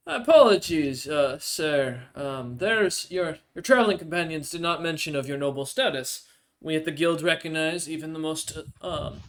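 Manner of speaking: lightly voiced Goliath official, halting and formal; a hint of a flustered official; apologetic guild official. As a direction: apologise formally to nobility, searching for words.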